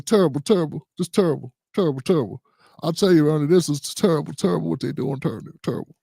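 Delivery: a hint of a grumbling basketball analyst; Charles Barkley impression. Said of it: "Charles Barkley".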